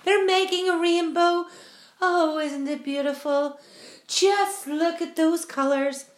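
enthralled exclaiming. A narrator's reading. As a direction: marvel aloud, savouring the sight. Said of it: "so enthralled by the beauty".

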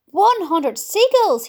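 high, slow triumphant shout. A narrator's reading. James calling out his count of seagulls, shouting. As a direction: announce the tally at full voice. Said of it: "he shouted".

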